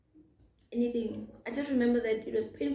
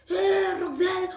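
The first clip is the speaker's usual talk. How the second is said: a light take on the uncle calling her name, higher; imitating uncle; 8 semitones higher, 3 dB louder than usual. Uncle greeting his niece, lightly imitated. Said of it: "That's how he used to call me".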